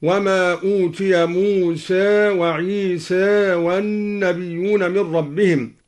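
موسى and عيسى with final vowel half-tilted toward e; taqlil on موسى and عيسى. Shown as a demonstration. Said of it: "قلل".

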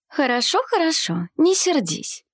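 high, lightly placating voice; peaceable, amused. A narrator's reading. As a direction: soothe with mild amusement, no real laugh. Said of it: "миролюбиво рассмеялась Елеоль".

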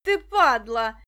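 rasping, loud, slow snarl; a rough hoarse villain's curse. A narrator's reading. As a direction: spit it out hoarsely at the boy. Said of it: "раздался его хриплый голос".

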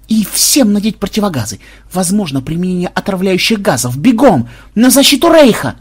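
high, urgent commanding shout; yelled orders. A narrator's reading. Fake superior sending guards to defend Reich, yelling. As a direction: drive the troops off, building to a yell. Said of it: "завопил Ксенобайт".

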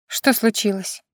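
gently concerned, not yet hushed; mother's light sympathetic question. A narrator's reading. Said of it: "участливо поинтересовалась она".

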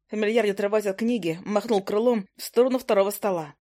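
ordinary delivery, nothing marked

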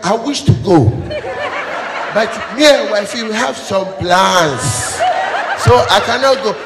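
mock timid married man making excuses; henpecked husband. Married man excusing himself from party.

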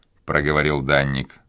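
ordinary delivery, nothing marked

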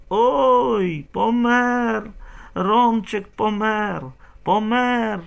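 loud high fake wailing; bawling wail. Old woman loudly bawling news of Roman's death to the house. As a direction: holler it for the whole house to hear. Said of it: "і загорланила".

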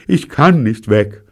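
slow, high and loud stammer; slow, halting girl's plea. A narrator's reading. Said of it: "stammelt sie".

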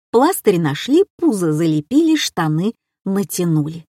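ordinary delivery

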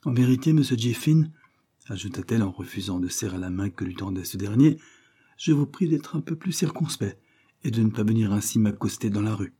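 a hint of a proud, cool young woman; mild disdainful lady's voice; lightly voiced haughty young lady. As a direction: keep him at arm's length, lightly voiced.

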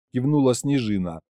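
plain reading voice

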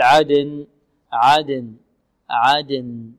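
عدن with qalqalah and a distinct closing n; clear final noon. Shown as a demonstration. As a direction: bounce the د of عدن, then sound a full ن. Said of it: "لابد من إيضاح ماذا النون". (عدن بقلقلة الدال وإيضاح النون)

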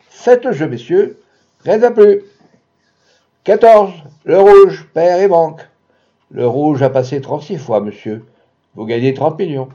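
high, loud croupier cry; croupier's call. A narrator's reading. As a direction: sing out the bets to the room. Croupier calls again, louder.

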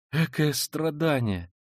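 high, slow, pained exclamation; agonized lament. Acted. Sonya pitying the killer, in a muted wail. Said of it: "вырвался мучительный вопль у Сони".

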